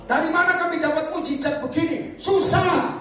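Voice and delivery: high, loud whining complaint; high whiny mock complaint; mocking doubtful whine. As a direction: complain like a hopeless believer. Mind voicing doubt.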